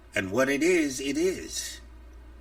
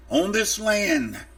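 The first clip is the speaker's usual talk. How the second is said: angry; 4 semitones higher, 4 dB louder than usual. Real, not acted. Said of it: "if I sound a little angry in my voice".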